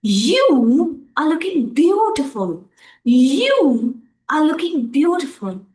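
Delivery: "You" stressed at the start. Shown as a demonstration. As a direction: lean on "You". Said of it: "let me stress the na-, pronoun over there, you".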